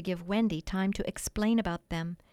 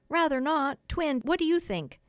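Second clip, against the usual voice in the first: eager question; 7 semitones higher, 4 dB louder than usual. A narrator's reading. Boys eagerly polling each other.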